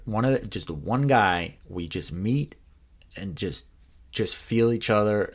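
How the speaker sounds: acting out an earnest coaxing; imitated pleading. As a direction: talk a reluctant friend into it. Acts Glenn pleading for a meeting.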